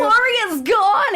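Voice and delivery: high, drawn-out fake wail; mock wailing. Co-host exaggerates TV family's panic over dropped call, mock wailing. Hammed-up wail from retold scene.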